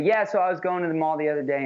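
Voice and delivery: without conviction. Shown as a demonstration. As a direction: lose your nerve and let the sentence fade out. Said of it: "This is the wrong way, without conviction".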